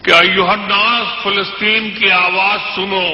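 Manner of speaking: measured, declamatory poetry recital; stately nazm recitation. Acted. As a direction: recite each couplet with weight. Recites poem stanza.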